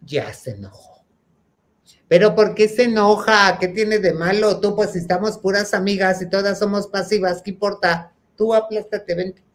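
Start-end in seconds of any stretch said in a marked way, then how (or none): 2.1-9.4 higher wheedling plea; coaxing. Retold or imitated. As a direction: coax her to stay, a bit pushy. Friends urging her to stay.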